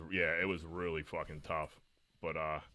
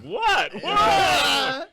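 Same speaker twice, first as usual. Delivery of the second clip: confused nurse; 15 dB louder than usual. Retold or imitated. Nurse confused by laughing patients.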